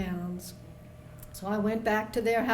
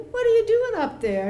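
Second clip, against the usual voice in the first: loud and high, calling up to a roof; calling up loudly; 12 semitones higher, 8 dB louder than usual. Retold or imitated. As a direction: shout up to someone above.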